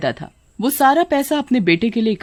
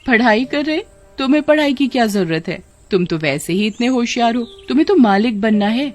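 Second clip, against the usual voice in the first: cajoling mother with lilting questions; scheming mother, coaxing; 3 semitones higher than usual. Acted. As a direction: sweet-talk a child out of studying. (बच्चे को फुसलाती माँ)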